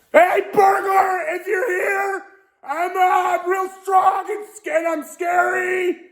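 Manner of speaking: very high-pitched, panicked warning; terrified falsetto trying to sound tough; scared bluff. Real, not acted. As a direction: squeal a threat at an intruder. Frightened, warning off an imagined burglar.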